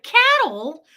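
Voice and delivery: high, loud disbelieving "Cattle?"; shocked. Retold or imitated. Retelling her shock at the sergeant, loud and high. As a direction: blurt it in disbelief.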